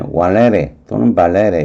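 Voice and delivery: valere first with w, then with b; two pronunciations. Shown as a demonstration. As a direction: say valere as walere, then balere. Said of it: "이렇게 발음하겠죠". (valere를 왈레레, 발레레 두 가지로 발음)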